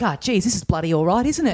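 slipping into casual ocker Australian; dropped accent, broad Australian. Acted. Friend forgets his Irish act with a girl, broad Australian. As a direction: let the fake accent drop into plain Aussie. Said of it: "almost immediately he's let it drop".

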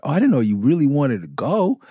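relishing the chance to fight; eager taunt. Retold or imitated. Rapper to the kid who hit him, a gleeful high taunt.

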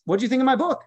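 high, loud mock Habakkuk asking about his book; playful prophet voice. Voicing Habakkuk asking kids.

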